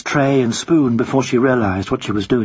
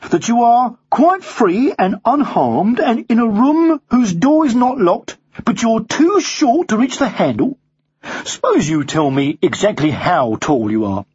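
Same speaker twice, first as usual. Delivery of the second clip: sceptical policeman, raised pitch at first; edge to the voice; 8 semitones higher than usual. A narrator's reading. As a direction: question him with a sharp edge. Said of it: "there was an edge to his voice".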